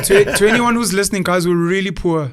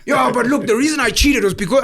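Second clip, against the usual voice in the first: mock excuse-making; 4 semitones higher than usual. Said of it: "mock excuse voice".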